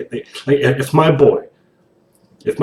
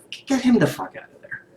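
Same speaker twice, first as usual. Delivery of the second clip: higher, fed-up repeat; exasperated demand again, voice pitched up; exasperated outburst; 13 semitones higher, 4 dB quieter than usual. Real, not acted.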